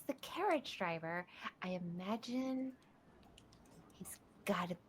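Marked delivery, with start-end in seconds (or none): 4.0-4.8 whispering. Real, not acted. Scheming aside.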